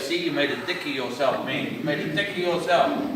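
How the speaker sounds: low-key putdown in a lightly voiced devil; inner devil. Devil putting him down after a trip, understated jeer. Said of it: "and my devil goes".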